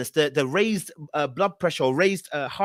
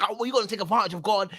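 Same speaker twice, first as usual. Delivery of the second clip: mocking critics; 3 semitones higher, much faster than usual. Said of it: "they're like".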